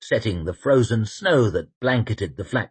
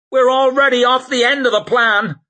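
grim woman's voice; 13 semitones higher, 6 dB louder than usual. Acted. Shai's grim reply.

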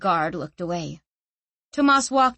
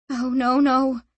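panicked; 4 semitones higher, 3 dB louder than usual. Acted. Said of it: "she thought, panicked".

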